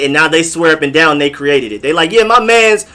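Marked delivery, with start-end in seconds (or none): 2.1-2.9 higher, insistent imitation of a New Yorker; lightly voiced New York boaster, pitched up; imitating New Yorker. New Yorker claiming they created the slang, mock insistence. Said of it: "Now New Yorkers are using it".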